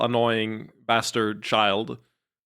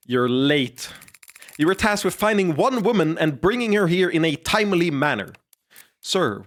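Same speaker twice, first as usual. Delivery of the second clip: put-on a touch louder, threatening young master; menacing master; 3 semitones higher, 3 dB louder than usual. Young master threatening his late lackeys, louder menace. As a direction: scold the lackeys with cold menace.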